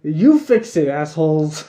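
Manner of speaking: straight-up confrontation. Retold or imitated. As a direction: tell them off straight, in mild imitation. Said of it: "straight up talking to him".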